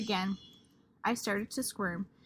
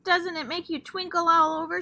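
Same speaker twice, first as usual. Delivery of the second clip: pushy excitement; 7 semitones higher, 9 dB louder than usual. Acted. Lucille pushing the class.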